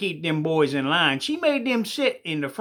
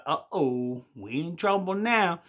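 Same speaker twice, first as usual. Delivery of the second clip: scared whisper-ish; 3 semitones lower, 4 dB quieter, slower than usual. Acted. Boys in the front pew fearing trouble, hushed and nervous. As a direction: lower and softer, a nervous mumble. Boys fear being caught.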